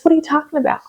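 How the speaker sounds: indignant protest, retold without shouting; kinda angry. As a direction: challenge her in mild, mounting exasperation. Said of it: "kinda got angry with her".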